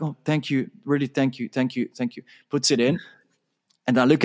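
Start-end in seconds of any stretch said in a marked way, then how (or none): 0.0-2.2 sheepish thanks. Retold or imitated.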